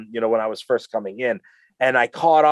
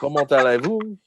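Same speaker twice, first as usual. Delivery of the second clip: put-on French with a muddled English-speaker's accent; clumsy French accent with a laugh; botched French accent. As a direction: attempt French badly, amused. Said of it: "It sounds like you're speaking English and an accent".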